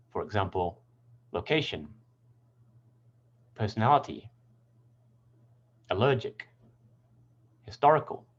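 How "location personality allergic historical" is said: "location, personality, allergic, historical" stressing CA, NAL, LER, TOR; stress before suffix. Shown as a demonstration. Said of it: "on the syllable before the suffix".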